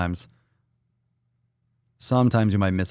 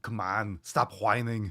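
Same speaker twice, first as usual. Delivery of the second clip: much softer, muttered mock scold; quiet mock scolding; 8 dB quieter, slower than usual. Host teasing chat about complaining, hushed mutter. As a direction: drop it almost under your breath. Same chant, dropped low.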